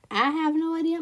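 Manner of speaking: "I have no idea" with a southern twang; southern accent. Real, not acted. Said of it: "My southern accent just came out".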